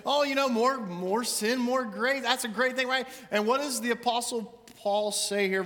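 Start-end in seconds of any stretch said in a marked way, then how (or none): 0.1-3.1 mock careless Christian. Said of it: "it sounds like I'm taking the sacrifice for granted".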